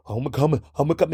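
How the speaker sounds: lightly mocked Southern accent; Shannon Sharpe. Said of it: "I hate his fucking little accent".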